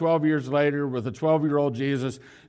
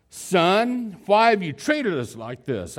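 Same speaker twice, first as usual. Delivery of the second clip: upset mother; 6 semitones higher, 4 dB louder, slower than usual. Retold or imitated. Mary finding her missing son in the temple, upset scolding. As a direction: pitch jumps higher on Son, a worried scolding. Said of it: "and his mother said to him".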